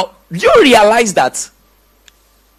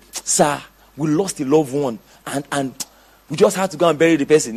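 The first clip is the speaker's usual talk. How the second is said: meek excuse; 5 semitones lower, 5 dB quieter than usual. Acted. Acts a member excusing himself to pastor.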